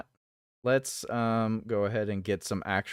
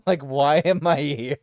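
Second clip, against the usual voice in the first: louder, laughing through the line; laughing mock cat voice; 4 semitones higher, 8 dB louder than usual. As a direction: voice the grumpy cat while cracking up. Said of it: "voicing the cat, laughing".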